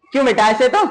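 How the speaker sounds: teacher calling out a pointed question; calling out to class. Acted. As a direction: call out the question to the class, half scolding.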